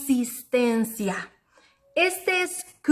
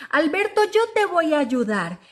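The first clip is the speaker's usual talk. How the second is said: friendly reassurance; 4 semitones higher than usual. Acted. Friend offers help.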